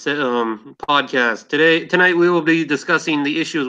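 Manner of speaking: hammy fake Russian accent. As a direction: play a Russian bot host. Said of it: "enough with that phony Russian accent".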